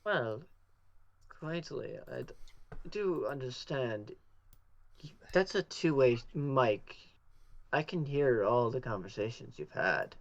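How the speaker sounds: a hint of unhurried, knowing menace; lightly voiced changeling.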